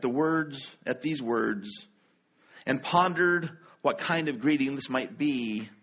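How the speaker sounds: measured, deliberate Bible reading; scripture reading. Acted. Pastor reads Luke's Christmas story to the congregation, measured. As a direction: read the Christmas story with reverence.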